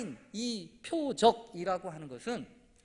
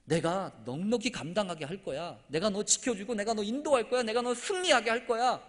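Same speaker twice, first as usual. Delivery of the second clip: emphatic promise; 2 semitones higher, 5 dB louder than usual. Acted. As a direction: build each assurance stronger than the last. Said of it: "그때 하나님이 약속하시죠". (점점 힘주어 약속하듯)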